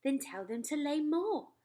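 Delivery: brisk order; the Queen. Acted. Queen commanding.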